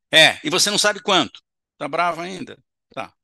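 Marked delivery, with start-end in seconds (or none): 0.1-1.4 loud, bitter retort; angry spirit. Acted. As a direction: growl it out with resentment.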